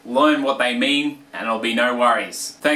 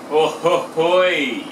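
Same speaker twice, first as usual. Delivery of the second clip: slow, drawn-out, sing-song oi; celebratory oi; 3 semitones higher, much slower than usual. Acted. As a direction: stretch the oi out to cheer a mate's win. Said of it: "greet a mate who's just achieved".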